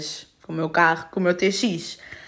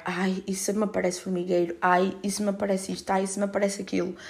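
softer, worried inner voice; anxious murmur; 6 dB quieter than usual. Retold or imitated. Replaying her health anxiety after the accident, worried murmur.

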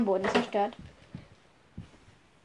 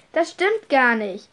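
indignant denial; 3 semitones higher, 5 dB louder than usual. Acted. Max denies the accusation.

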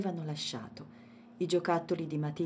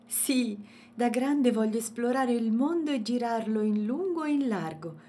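decided; 6 semitones higher, 6 dB louder than usual. A narrator's reading. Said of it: "rispose decisa Matilde".

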